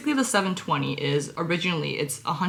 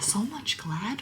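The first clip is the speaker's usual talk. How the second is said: mocking repeat; 3 semitones higher, 9 dB quieter, slower than usual. Real, not acted. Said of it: "Fucking horrible grammar".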